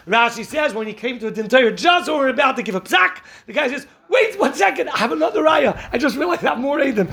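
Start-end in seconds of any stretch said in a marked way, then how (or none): 4.1-7.1 urgent interruption. Retold or imitated. Litigant stops the judges before the ruling, urgent high objection. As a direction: cut in just before the verdict, excited.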